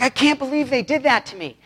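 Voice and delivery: mock freaking out. Believers making a huge deal of being wronged, mock freaking out. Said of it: "we're freaking out".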